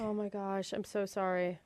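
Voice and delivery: low, soft aside; hushed sympathy. Real, not acted. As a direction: murmur a pained apology under your breath. Co-host pities woman in aside.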